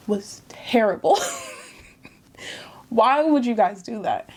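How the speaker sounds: hushed, breathy disbelief; whisper. Real, not acted. Vlogger whispering in shock at the show's writers. Reacting to the show's death scene.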